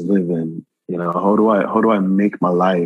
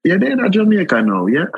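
much higher, gentle scolding auntie; Miss Morrison's voice; 10 semitones higher than usual. Retold or imitated. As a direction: coax the returning dear back home. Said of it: "she was like".

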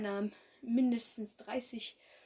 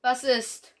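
growl; 2 semitones higher, 12 dB louder than usual. Acted. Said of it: "knurrte Tannenstern".

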